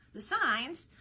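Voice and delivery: shocked, voice jumping high and loud; spluttering surprise. A narrator's reading. Orlando spluttering at the disguised Rosalind, astonished. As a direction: blurt it out in disbelief. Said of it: "Orlando spluttered".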